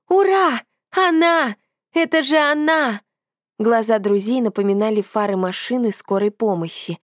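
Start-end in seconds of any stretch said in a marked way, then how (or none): 0.1-3.0 ecstatic yell. A narrator's reading. Narrator yells with joy after finding the card. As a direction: shout it to the whole forest. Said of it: "заорала на весь окрестный лес".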